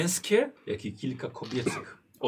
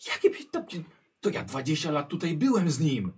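indignant disbelief; 4 semitones higher, 3 dB louder than usual. Acted. Heminger disputes the years, indignant.

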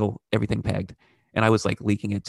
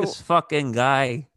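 mock New York accent; 3 semitones higher, much slower than usual. Continues the put-on New York bit.

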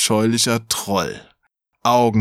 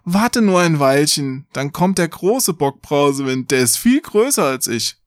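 raised, wheedling goat voice; pleading middle goat; 7 semitones higher than usual. A narrator's reading. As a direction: beg in a higher goat voice. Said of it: "Der zweite aber bat".

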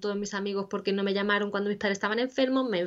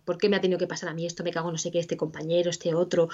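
mild mock grumbling; 2 semitones lower, faster than usual. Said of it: "se vaya intercambiando".

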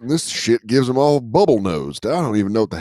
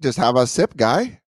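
a hint of Canadian accent; mock Canadian accent. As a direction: lightly imitate a Canadian pal. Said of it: "wildly offended by our accents".

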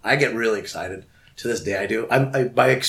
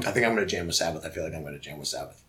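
like Rain Man; 5 semitones lower, 6 dB quieter, faster than usual. Retold or imitated. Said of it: "almost like Rain Man".

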